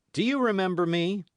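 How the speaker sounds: loud, high threatening challenge; menacing demand. A narrator's reading. D'Artagnan confronting the perfidious host, loud and threatening. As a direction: confront him loudly, hat over eyes. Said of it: "said he to the host".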